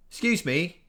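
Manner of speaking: calling out. A narrator's reading. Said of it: "raising his voice".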